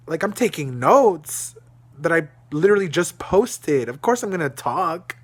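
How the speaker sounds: heated self-defense; indignant. Real, not acted. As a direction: push back hard, outraged.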